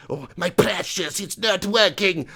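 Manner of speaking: slow, half-sung creepy creature voice lisping precious; Gollum impression. Manager at half time, mock Gollum singsong. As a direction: drag it out like Gollum stroking his ring. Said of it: "was that like a Gollum Borat?".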